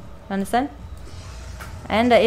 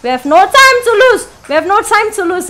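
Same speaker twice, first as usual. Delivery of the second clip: urgent repeats climbing higher and faster; rising panic; 5 semitones higher, 4 dB louder than usual. Real, not acted. Frantic, pressing. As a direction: player hurrying the character, growing frantic.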